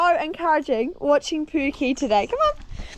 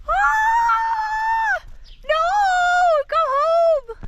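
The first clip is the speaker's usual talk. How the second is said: high, loud yelp and shoo; startled shout; 5 dB louder, much slower than usual. Real, not acted. Rider startled by stalking horse, yelping loud. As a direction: shoo it off in alarm.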